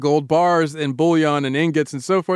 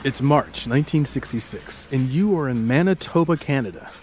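storytelling narration. Acted. Guided "picture it" story narration.

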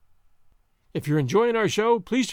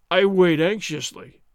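slow, louder sneer; 5 dB louder, slower than usual. Acted. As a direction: drag the words out with contempt. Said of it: "Gonzales sneered".

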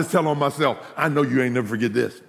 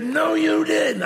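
shouted disbelief; 13 semitones higher, slower than usual. Retold or imitated. Mama shouting at son over new car, disbelieving. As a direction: shout it in mock outrage.

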